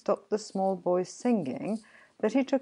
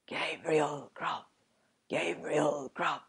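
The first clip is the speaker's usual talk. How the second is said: wild spectral chorus; 3 dB quieter than usual. A narrator's reading. Goblin chorus taunts the sexton, eerie chanting. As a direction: chant the name slowly like unseen spirits. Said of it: "Again the voices replied".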